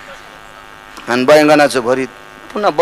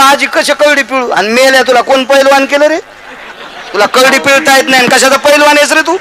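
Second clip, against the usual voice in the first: put-on scolding old woman; 8 semitones higher than usual. Grandmother scolds the wrestler.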